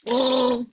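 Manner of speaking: mimed gargle on a held "oh"; gargling. Shown as a demonstration. Coach imitates gargling water to show the dark L. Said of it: "and gargle".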